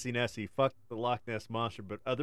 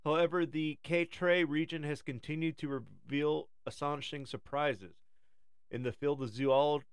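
nature documentary; 3 semitones higher than usual. Acted. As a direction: read it like a wildlife film. Reads a documentary script.

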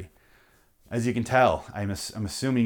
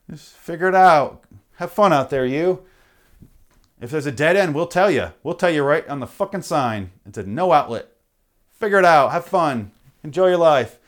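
louder, snide send-off; mock taunt; 3 semitones higher, 4 dB louder than usual. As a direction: dismiss them with a smirk. Taunting drivers as road god.

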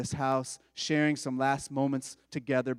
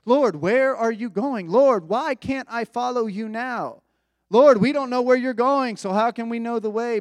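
higher and louder, urgent pleading questions; anxious disciples; 5 semitones higher, 5 dB louder than usual. Retold or imitated. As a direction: fire the questions like panicked followers. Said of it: "they're asking all these questions".

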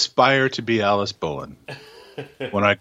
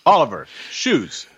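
scolding parent; 4 semitones higher, slower than usual. Pretend.

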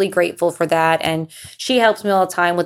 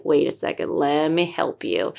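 calm, level-headed; 3 semitones lower, 6 dB quieter than usual. Retold or imitated. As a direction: talk her down gently like a calm sister. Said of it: "She's the level-headed one".

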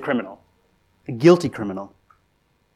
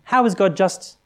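accusing challenger; 3 semitones higher than usual. Retold or imitated. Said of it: "the accusation goes like this".

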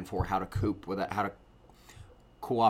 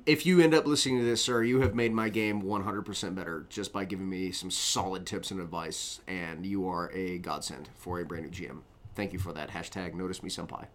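softer, lower, heartfelt tribute; quiet gratitude; mushy sincere thanks; 4 semitones lower, 3 dB quieter than usual. Real, not acted. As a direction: thank a mentor earnestly, voice settling down. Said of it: "It's mushy as shit".

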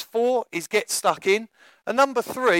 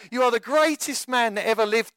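higher-pitched courtly gushing; flattery; 4 semitones higher than usual. Acted. Courtiers praising their king, mildly hammed-up flattery. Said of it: "continually full of flattery".

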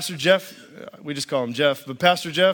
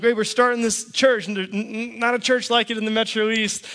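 much higher, eager pitch; fired up; 6 semitones higher than usual. Retold or imitated. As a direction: pitch the big dream with excitement. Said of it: "I'm all fired up".

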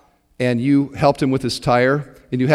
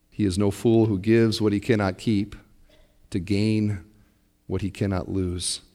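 soft quote; 8 semitones lower, 8 dB quieter than usual. Retold or imitated. Quoting a hero.

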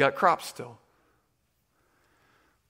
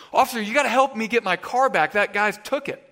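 lightly acted, higher and louder appeal; urgent plea; 5 semitones higher, 4 dB louder than usual. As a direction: imitate a friend begging an officer for help. Retold friend pleading with officer.

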